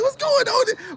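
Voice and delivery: high mock kangaroo shout. Mimicking the flexing kangaroo, high and hammed-up. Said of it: "They be like".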